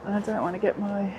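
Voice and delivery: muffled under a rain jacket. Real, not acted. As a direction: talk through the jacket collar. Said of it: "Sorry if my voice is a little bit muffled".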